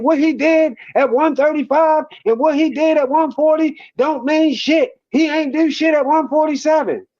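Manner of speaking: retold heated dismissal; imitating irate critics. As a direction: hammer it out like a worked-up critic. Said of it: "veins busting out they fucking head".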